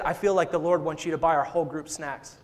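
deadpan prank delivery, slightly low; mock serious. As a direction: say it as if dead serious. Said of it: "he thought I was, like, dead serious".

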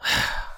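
heavy, acted breath out; imitated huff before a complaint; mock exasperated sigh. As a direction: sigh as the put-upon boyfriend. Corey walks over, put out.

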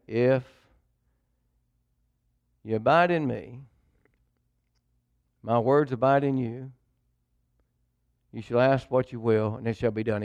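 slow, drawn-out reading with long pauses between phrases. Shown as a demonstration. Preacher rereading the verse slowly as the Lord asked, slow and drawn out. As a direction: let each phrase land before the next. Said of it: "I want you to read it a little slower".

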